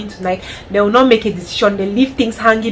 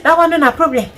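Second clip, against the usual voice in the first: higher, louder mock advice voice; mocking bad advisers; 7 semitones higher, 5 dB louder than usual. Mocking people who tell wives to stay with mock advice. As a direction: parrot the advice with scorn. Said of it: "people will be advising you".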